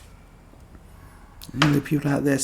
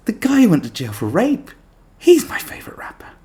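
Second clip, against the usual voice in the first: mock fan voice; 11 semitones higher, 4 dB louder than usual. Mocking fan voice.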